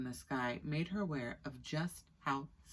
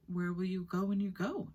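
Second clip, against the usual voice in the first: curious; 5 semitones higher than usual. Acted. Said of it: "asked Diva curiously".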